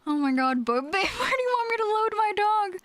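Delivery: joking put-on voice. Silly joke voice.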